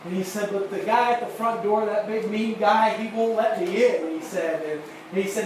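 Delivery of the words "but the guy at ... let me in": put-on lightly raised boyish voice, aggrieved; a small boy telling on the big mean doorman; boy's complaint. Boy complaining to the preacher, a hint of a raised child voice.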